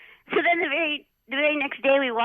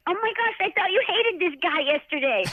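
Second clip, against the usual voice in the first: mock surprise; 7 semitones higher than usual. Trainer surprised at the reconciliation.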